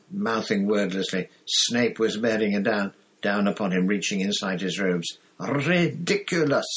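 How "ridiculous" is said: high, drawn-out squeak. A narrator's reading. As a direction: squeak it out slowly. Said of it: "squeaked Neville".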